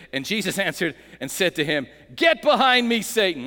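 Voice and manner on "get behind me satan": loud, firm rebuke. Shown as a demonstration. Congregation rebuking Satan together, loud. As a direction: command the devil to leave. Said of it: "Let's say that together".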